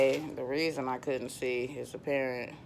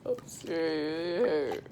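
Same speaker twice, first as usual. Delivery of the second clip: laughing; 4 semitones higher, slower than usual. Real, not acted. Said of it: "I'm cramping".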